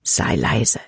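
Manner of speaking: urgent hushed whisper. A narrator's reading. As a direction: breathe the words, barely voiced. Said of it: "flüsterte er". (geflüstert, dringend)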